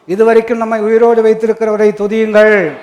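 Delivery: loud rallying call to praise; preaching exhortation. Real, not acted. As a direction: build to a big, ringing last word. Preacher calls congregation to praise.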